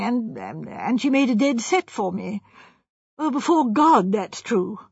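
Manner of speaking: put-on self-excusing young man, a touch plaintive; hesitant young architect. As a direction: justify yourself haltingly. Architect haltingly explains himself.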